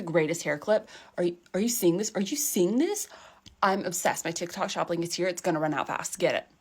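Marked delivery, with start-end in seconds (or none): 1.2-4.2 gushing influencer. Acted. Parodying excited influencer.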